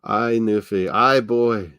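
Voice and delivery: lilting Newfie Irish brogue; playful, broad Newfie accent; Newfoundland accent. Retold or imitated. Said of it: "Bastardized Irish accents".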